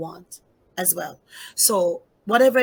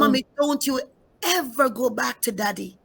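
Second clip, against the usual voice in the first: voicing her nine-year-old daughter; 4 semitones higher than usual. Mother retelling her daughter's plea, higher pleading child voice. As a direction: plead like a little girl begging her mother. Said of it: "She said".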